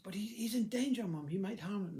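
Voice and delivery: high, loud, urgent protest; acted alarm. Children warning Mum that father's in danger, alarmed. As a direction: plead urgently, voice shooting up.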